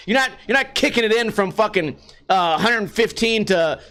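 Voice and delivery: ordinary delivery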